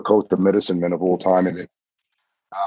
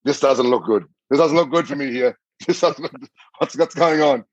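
higher-pitched retold worry; mock unease; 6 semitones higher than usual. Rider recalls doubts about where he's being led, mock uneasy. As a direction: voice climbing in half-joking alarm. Retelling his alarm at the situation.

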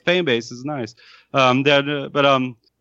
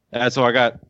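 smoker's cough; 2 semitones lower than usual. Real, not acted. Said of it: "He's dying over there".

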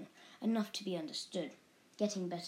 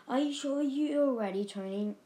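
high, loud anxious question; worried parent checking; 6 semitones higher, 5 dB louder than usual. A narrator's reading. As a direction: ask it with anxious concern. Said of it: "asked the worried Missus Bott".

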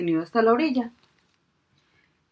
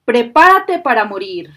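menacing genie; 2 semitones higher, 9 dB louder than usual. A narrator's reading. Genie threatens fisherman.

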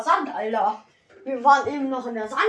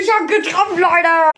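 loud, high cheer; excited shout; 4 semitones higher, 10 dB louder than usual. Real, not acted. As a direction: yell out the win. Hits the shot, cheers.

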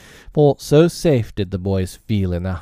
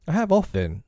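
Smee the bosun; 9 semitones higher than usual. A narrator's reading. Smee answers his captain, piping up. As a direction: pipe up as the simple bosun.

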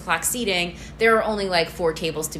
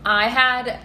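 loud, high, excited outburst; excited near-scream; 7 semitones higher, 6 dB louder than usual. Real, not acted. Friend starting on her favourite dish, screaming with excitement. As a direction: burst in too loudly, pitched up with excitement. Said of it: "I don't know why I'm screaming".

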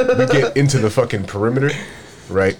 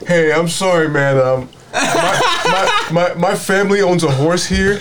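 higher, slower nervous stammering white guy; mock nervous voice, pitched up and stammering; imitating nervous white guy; 9 semitones higher, much slower than usual. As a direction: play the flustered white kid talking his way out. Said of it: "White dude immediately ... he steps up".

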